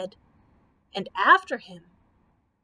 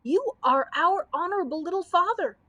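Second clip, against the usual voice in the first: pleading crowd; 7 semitones higher, 4 dB louder than usual. A narrator's reading.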